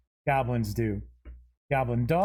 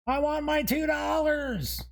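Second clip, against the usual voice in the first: much higher, squeaky quoted demand; movie quote; 12 semitones higher than usual. Acted. Host blurting a movie quote while flipping monster pages, high-pitched. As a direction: blurt out the famous line in a high voice. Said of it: "I don't know why that just popped in my head".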